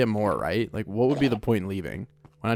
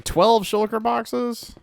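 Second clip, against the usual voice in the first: incredulous; 11 semitones higher, much slower than usual. Real, not acted. Incredulous at small number.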